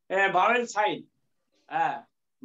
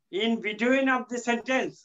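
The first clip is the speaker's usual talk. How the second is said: slow emphasis; much slower than usual. Shown as a demonstration. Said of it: "teacher stressing the rule".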